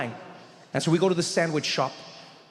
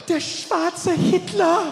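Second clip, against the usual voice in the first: high, slow, horrified; shocked whisper-gasp; 13 semitones higher, 5 dB louder, much slower than usual. Retold or imitated. Counter woman staring at him, horrified and high. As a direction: gasp it out in disbelief.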